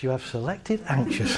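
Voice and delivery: a lightly voiced mind, chuckling; unconscious mind, laughing.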